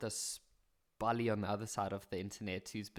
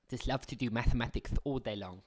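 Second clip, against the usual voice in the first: goody two-shoes nerd; 4 dB louder than usual. Acted. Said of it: "a little goody two-shoes nerd".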